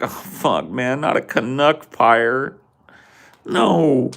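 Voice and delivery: panicked victim. Retold or imitated. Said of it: "Be like".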